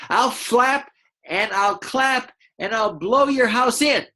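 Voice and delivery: high, slow squawking bird voice; squawking eagle. Acted. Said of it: "I'm gonna be the eagle voice".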